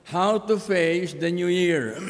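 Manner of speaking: slow, emphatic restating of the title; measured, weighty title read. Shown as a demonstration. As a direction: announce the title slowly and deliberately. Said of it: "The title of the message is".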